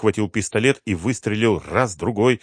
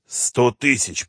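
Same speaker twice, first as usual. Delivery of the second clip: rasped; 5 semitones higher, 4 dB louder, much slower than usual. Acted. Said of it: "прохрипел генерал".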